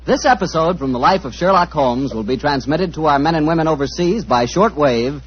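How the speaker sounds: put-on smooth old-time radio announcer read. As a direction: sell it like a forties sponsor spot. Announcer reads sponsor copy.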